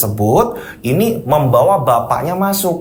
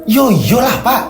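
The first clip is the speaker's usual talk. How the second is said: scolding wife; 4 semitones higher than usual. Acted.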